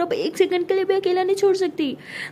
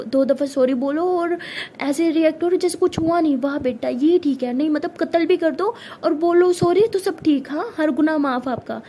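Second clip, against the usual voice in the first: angry; 4 dB louder than usual. Acted. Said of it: "ऐसे गुस्से में घूरती है".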